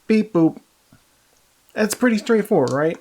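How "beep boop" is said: robot voice. Shown as a demonstration. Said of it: "Robo is like this".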